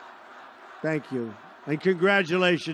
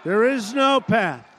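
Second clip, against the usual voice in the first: hammed-up anchor declaring the result; emphatic mock announcement; slower than usual. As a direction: proclaim it like the anchor making it official. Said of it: "And he goes".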